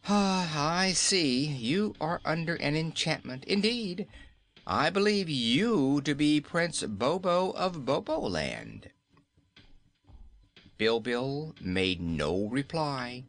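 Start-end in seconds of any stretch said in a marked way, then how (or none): 0.1-8.9 pitying. Acted. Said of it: "with a pitying sigh".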